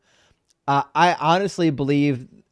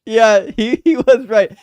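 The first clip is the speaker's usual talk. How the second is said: excited agreement; 8 semitones higher, 8 dB louder, slower than usual. Real, not acted. Laughing agreement.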